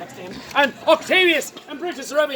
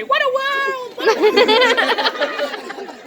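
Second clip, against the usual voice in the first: high, wailing lament; melodramatic dying cry; 9 semitones higher than usual. Acted. Storyteller prompted by the volunteer's hat, high wail. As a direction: wail it out, much higher than usual. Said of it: "because of her hat to say".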